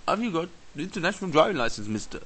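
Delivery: lightly put-on officer voice; a hint of a shakedown cop; imitated policeman. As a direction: ask like a smug traffic cop. Corrupt policeman stops rider.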